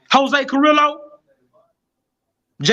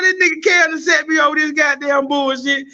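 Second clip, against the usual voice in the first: half-joking wailed complaint, a touch higher; mock distressed cry; 4 semitones higher than usual. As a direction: play your old self whining at Cam. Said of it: "I said".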